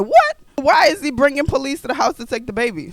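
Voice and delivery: disbelief bursting out; shocked outburst. Retold or imitated. Shocked again by dad's police.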